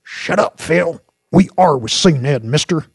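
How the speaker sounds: high, loud barked rebuke; barking. A narrator's reading. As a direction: bark at your partner, then at the suspect. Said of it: "barked Jinx".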